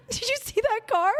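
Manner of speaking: very high, squeaky laugh-talk; laughing retelling. Retold or imitated. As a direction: squeeze the words out through laughter. Retelling her own helpless laughing reply.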